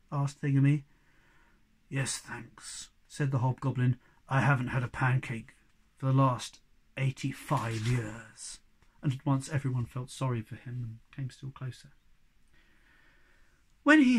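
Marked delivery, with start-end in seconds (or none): 1.9-8.6 low and wistful, like a lonely giant; sad hobgoblin. Acted.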